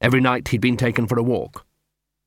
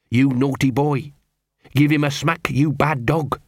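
lightly muttered scolding; muttered litany; 2 semitones higher than usual. Acted. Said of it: "muttered Gaspode".

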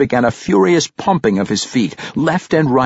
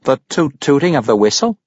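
cultured gentleman; 4 semitones higher than usual. A narrator's reading. Pericolo asks.

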